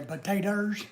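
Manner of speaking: lightly Southern "potatoes", ending in -erz; southern accent. Shown as a demonstration. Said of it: "gotta put that, that i-, accent in there".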